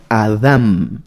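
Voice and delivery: Adam stressed on the second A, ending in M; Hebrew pronunciation. Shown as a demonstration. Teacher showing the congregation the Hebrew word, stressed Adam with final M. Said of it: "con un acento en la segunda A y con M".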